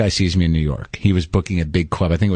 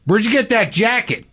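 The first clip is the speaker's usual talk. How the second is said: much higher, taunting heckle from the crowd; mocking heckler; 13 semitones higher than usual. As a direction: needle him from the audience. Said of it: "a guy with an American accent goes".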